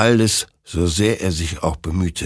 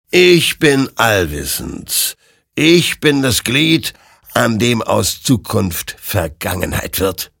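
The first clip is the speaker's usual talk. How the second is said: high, slow, looming spirit voice, only lightly put on; a hint of an ominous ghost rider; lightly voiced ghostly creature; 4 semitones higher, 5 dB louder, slower than usual. Ghostly rider reveals itself to Hektor, lightly ominous.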